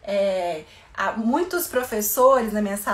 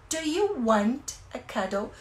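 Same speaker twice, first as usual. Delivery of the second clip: slow gentle offers; slower than usual. Shown as a demonstration. Teacher offering a child hug and kiss, slow gentle voice. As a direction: offer comfort slowly and kindly. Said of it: "Você pode falar".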